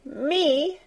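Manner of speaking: startled question. A narrator's reading. Martha startled at being told.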